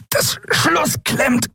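high, slow strained creature voice; pressed voice. A narrator's reading. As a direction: squeeze it out slowly under strain. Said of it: "antwortete Quailor mit gepresster Stimme".

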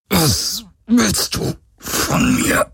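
strained, pressed out high; forced out through clenched teeth; through gritted teeth. A narrator's reading. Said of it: "presste er zwischen zusammengebissenen Zähnen hervor".

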